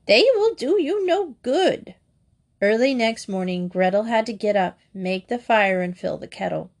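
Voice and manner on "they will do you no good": high sneering witch line; cold witch retort. A narrator's reading. Witch dismisses Gretel's tears, high and sneering. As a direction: sneer it down at the girl. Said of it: "said the old woman".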